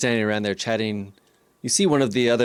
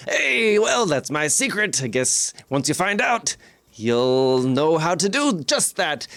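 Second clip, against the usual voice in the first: coy, slow, drawn-out tease; sly carnival barker; 3 semitones higher, slower than usual. Acted. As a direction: dangle the secret playfully, stretching it out. Barker shares a secret with a wink.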